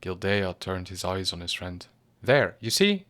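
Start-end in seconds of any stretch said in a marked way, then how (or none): 2.2-3.1 higher and louder outburst; exclaimed. A narrator's reading. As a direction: blurt it out in triumph. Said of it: "he ejaculated".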